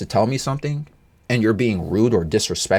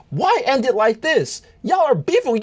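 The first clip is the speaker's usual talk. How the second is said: pleading whine; 13 semitones higher than usual. Pretend. Pleading at the arguers.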